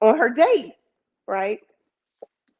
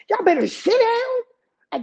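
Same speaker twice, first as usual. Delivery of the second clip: slow, firm order with a higher put-on voice; stern tone; 13 semitones higher, slower than usual. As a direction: lay down the law, slowly. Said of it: "spoke in that tone".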